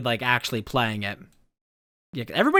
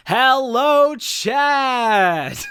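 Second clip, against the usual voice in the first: high loud cute streamer greeting; Cosmic Emerald; 12 semitones higher, 6 dB louder, much slower than usual. Retold or imitated. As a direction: squeal a cute streamer hello. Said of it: "This is my best Cosmic Emerald impression".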